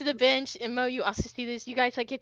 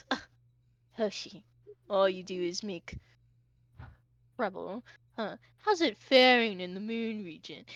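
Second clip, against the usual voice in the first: scoffing, dismissive brush-off; 4 semitones lower, 4 dB quieter than usual. Voicing a character who meets a rival, scoffing. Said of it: "he kinda scoffs and he goes".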